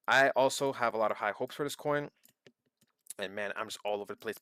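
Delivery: jittery caffeinated rush; wired on too much coffee. Real, not acted. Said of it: "but I'm caffeinated right now".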